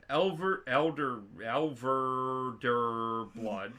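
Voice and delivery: slow, careful stumble through ELVERDER; tripping over the word. Real, not acted. Telling a friend about elder blood, tongue-tied. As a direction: feel your way slowly through a tricky word.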